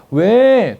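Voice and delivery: high, loud answer to spouse; matching high reply. Acted. Wife answers husband in the same high tone. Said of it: "똑같이 해야 돼요".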